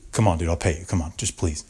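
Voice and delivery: low, softened begging; pleading. Retold or imitated. Handcuffed puncher offering money to his victim, pleading. Puncher begs not to be charged.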